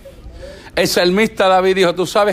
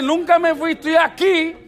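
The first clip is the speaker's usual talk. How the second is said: voicing Jesus; 6 semitones higher than usual. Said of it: "le dice".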